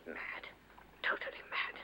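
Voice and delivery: breathy repeat to herself; muttered, voiceless repeat of the insult; whispered aside. Acted. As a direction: whisper it under her breath.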